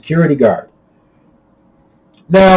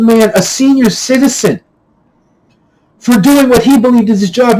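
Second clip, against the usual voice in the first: higher, firm mild telling-off; stern scolding; 4 semitones higher than usual. Retold or imitated. Narrator scolds the raging guy for attacking an old man, stern. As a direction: lay out his wrongs, steady and stern.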